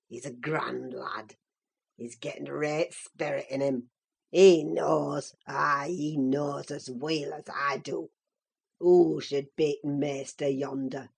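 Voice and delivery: put-on gloating old Joseph. Joseph mocks Linton's rage by the fire, gloating low. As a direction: relish every word of the mockery. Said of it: "malignant, crackly laugh".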